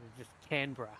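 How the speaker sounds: Canberra cut down to CAN-bruh; shortened pronunciation. Shown as a demonstration. Host explaining which letters go, CAN-bruh pronunciation. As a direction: drop the E and R after the B in Canberra. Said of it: "the E and the R after the B".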